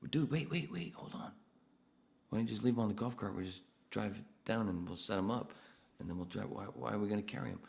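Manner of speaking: high, pleading disbelief; incredulous protest. Retold or imitated. To a coworker carrying signs, high incredulous protest. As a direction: voice jumps way up, arguing he's being reasonable.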